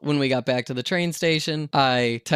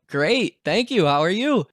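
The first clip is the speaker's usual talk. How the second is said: higher-pitched polite enthusiasm; cheery reply; 6 semitones higher, 3 dB louder than usual. Retold or imitated. Passengers politely answering the friendly driver, cheery. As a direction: mirror the driver's chirpy greeting.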